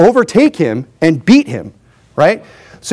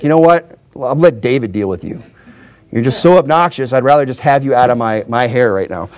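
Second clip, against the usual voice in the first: low, weary brush-off; mock annoyed; 3 semitones lower than usual. Fed-up commander dismissing the pestering runner, mildly annoyed. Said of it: "He just gets so annoyed with this guy".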